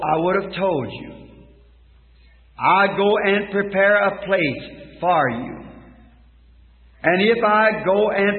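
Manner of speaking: slow, deliberate Bible reading; solemn Scripture reading. Real, not acted. Preacher reading John fourteen to the congregation, solemn Scripture reading. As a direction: read each phrase weightily, with pauses between.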